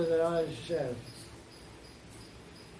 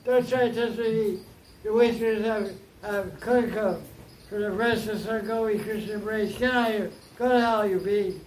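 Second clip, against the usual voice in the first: angry scolding; 3 semitones higher than usual. Acted. Radha scolding Krishna's bee messenger, angry. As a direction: drive the bee away in anger. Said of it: "Rari said".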